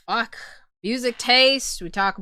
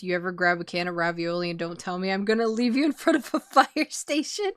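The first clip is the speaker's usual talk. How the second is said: flat, fast mom voice; deadpan mom; faster than usual. Retold or imitated. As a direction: deliver the threat totally straight-faced. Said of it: "said with a deadpan voice".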